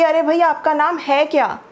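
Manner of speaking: है क्या said with weight on है; stress on है. Shown as a demonstration. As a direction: lean on है in है क्या, end falling. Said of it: "है पे जोर है हमारा".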